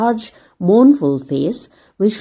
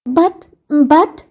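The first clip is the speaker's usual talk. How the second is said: gasped; 6 semitones higher than usual. A narrator's reading. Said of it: "gasped Dick".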